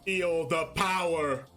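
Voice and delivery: low, slow, hammed-up card summon; hammed-up dramatic summoning voice, low and slow; mock anime summoning. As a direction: declare it like a card game anime hero. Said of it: "I was exaggerating".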